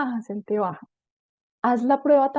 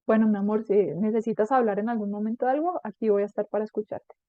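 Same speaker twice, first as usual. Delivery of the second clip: calm, unhurried, slightly lowered reassurance; acted gentle parental support; reassuring parent. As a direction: let your child know you're available.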